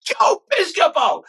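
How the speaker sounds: slow, high, delighted call of the name; Tom Hanks drawn out. Retold or imitated. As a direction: stretch the name out, savouring it like Hanks. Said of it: "Tom Hanks says that".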